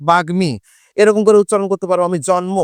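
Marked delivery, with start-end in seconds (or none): 0.1-0.5 বাগ্মী with ম said directly; বাগ্মী: clear গ then ম; pronunciation demo. Shown as a demonstration. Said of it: "এটা উচ্চারণটা কি হবে". (বাগ্মী স্পষ্ট উচ্চারণ)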